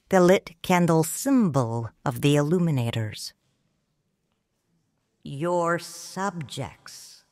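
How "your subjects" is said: slow, softer, biting; acid. Acted. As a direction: drop it slowly with quiet acid. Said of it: "my tongue full of acid".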